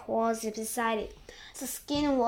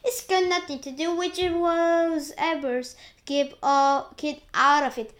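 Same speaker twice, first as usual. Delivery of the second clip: higher, louder telling-off; scolding; 4 semitones higher, 6 dB louder than usual. A narrator's reading. An aunt tells James to keep out, scolding. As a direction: scold in a raised voice.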